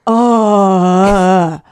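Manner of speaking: disgusted groan. Retold or imitated. Mimes her disgust at the imp.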